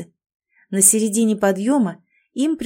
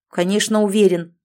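louder curt snap; snapping; 3 dB louder than usual. Acted. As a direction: snap back irritably. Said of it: "огрызнулся парень".

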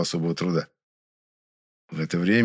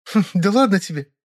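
giggling; 12 semitones higher, 4 dB louder than usual. A narrator's reading. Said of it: "хихикнула Вера".

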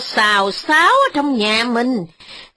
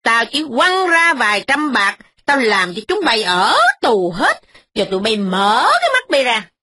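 put-on higher, threatening old mistress; snapping loudly; 5 semitones higher than usual. Old mistress threatens the tenant, higher and harsh. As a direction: bark threats, pitched up. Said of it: "Bà cai nạt lớn".

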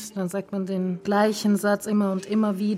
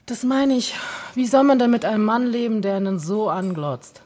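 fed-up complaint, raised voice easing off at the end; exasperated; 3 semitones higher, 5 dB louder than usual. Acted. Wife complaining about her staring husband, exasperated.

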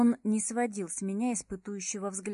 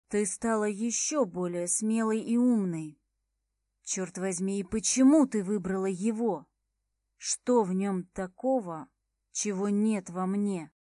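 bitter; 3 dB louder than usual. Acted. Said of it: "С явной горечью".

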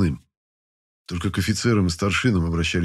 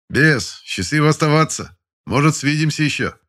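calling out farewell; 8 semitones higher, 4 dB louder than usual. A narrator's reading. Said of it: "прощался".

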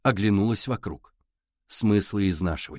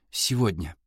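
whispered through tears; 4 semitones lower than usual. A narrator's reading. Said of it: "прошептала сквозь слёзы девчонка".

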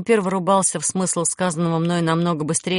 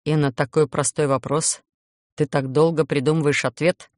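bitter scoff; 4 semitones lower than usual. Acted. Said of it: "С ядовитой горечью фыркнул он".

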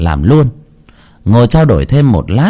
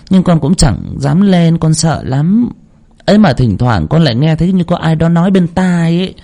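high-pitched woman pleading for guidance; troubled, respectful supplicant; 8 semitones higher than usual. Acted. Young woman tells the medium of dreams and troubles, high and supplicating. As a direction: lay out your troubles in a higher, deferential voice.

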